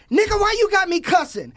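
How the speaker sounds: mock indignant Pat. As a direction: play her offended complaint. Imitating Pat's objection.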